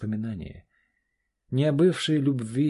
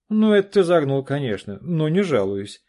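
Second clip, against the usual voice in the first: boisterous; 7 semitones higher, 10 dB louder than usual. Acted. Friend laughs off compliment loudly.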